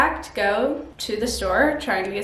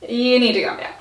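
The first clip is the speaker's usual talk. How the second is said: firm self-talk; faster than usual. Pretend. Speaker telling herself to calm down, firmly. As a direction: tell yourself firmly to settle.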